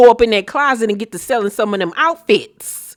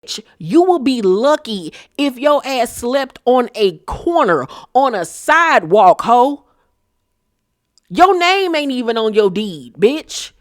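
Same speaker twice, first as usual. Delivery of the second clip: mock clapback; 3 semitones higher than usual. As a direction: tear into her, full attitude. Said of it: "your response should have been".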